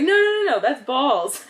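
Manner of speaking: high, loud laughing no no no; cracking up while correcting; laughing protest. Retold or imitated. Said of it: "And she started laughing".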